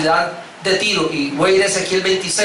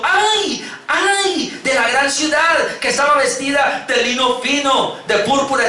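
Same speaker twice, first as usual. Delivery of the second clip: wailing lament; 5 semitones higher, slower than usual. Acted. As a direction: cry out "ay" like a mourner. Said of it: "llorando y lamentando, y diciendo".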